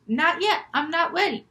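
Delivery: high, flustered protest; flustered girl. Acted. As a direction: blurt it high, not ready to be seen. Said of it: "And she goes".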